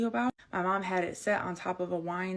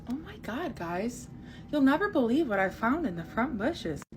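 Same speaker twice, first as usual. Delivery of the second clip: mom's alarm; 4 semitones higher than usual. Retold or imitated. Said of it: "she goes".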